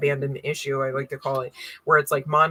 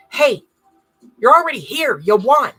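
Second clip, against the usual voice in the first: sudden high, loud burst of joy; loud reveal; 7 semitones higher, 9 dB louder than usual. Acted. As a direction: flip from the whisper into a bright shout. Triumphant reveal after the whisper.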